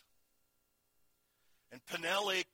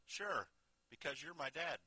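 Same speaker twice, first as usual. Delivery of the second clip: calm; 4 semitones higher, 4 dB quieter than usual. Retold or imitated. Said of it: "he responded with remarkable calmness".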